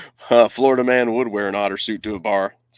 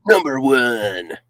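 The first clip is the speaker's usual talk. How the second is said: slow echo try; 4 dB louder, much slower than usual. Shown as a demonstration. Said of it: "I can't do the echo".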